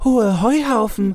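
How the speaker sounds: loud, very high shouted call-out. Murkel answers in class in front of the teacher, calling out loudly. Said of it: "rief der Murkel laut".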